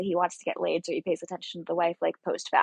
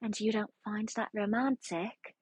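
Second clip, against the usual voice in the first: lightly attempted British accent, a little softer; 6 dB quieter than usual. Englishwoman questioning the hunter about romance, attempted British accent. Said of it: "I'm gonna stop doing accents".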